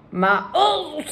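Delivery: high "oh" of revulsion; spitting in disgust. A narrator's reading. Giant spitting out coffee, disgusted cry. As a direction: recoil from a foul mouthful. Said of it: "esclamò sputando con violenza".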